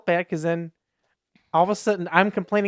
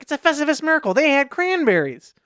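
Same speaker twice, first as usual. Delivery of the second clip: excited announcement; 8 semitones higher, 5 dB louder than usual. Retold or imitated. John announcing a cranberry find, excited. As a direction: proclaim it high, stretching the last words.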